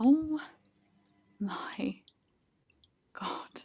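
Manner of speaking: barely voiced whisper under the breath. Reading a dramatic story aloud, the heroine realizes something: whispering. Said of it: "she whispers".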